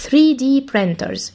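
three D printers drawn out word by word; very slow. Shown as a demonstration. Teacher repeating the term slowly for the class. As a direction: say three D printers at a crawl for pupils to copy.

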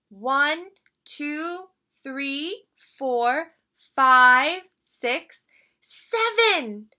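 high, eager cub voice; sweet little bear cub. Acted. Little Brown Bear counting.

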